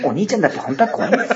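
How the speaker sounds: quick, lightly voiced show narrator; a hint of the variety show narrator; narration impression. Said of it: "生まれて初めてやりました、このモノマネ".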